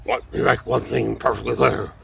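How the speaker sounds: lightly voiced Nixon vice-president; a hint of Richard Nixon; Nixon impression. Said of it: "my impression of former Vice President Richard Milhous Nixon".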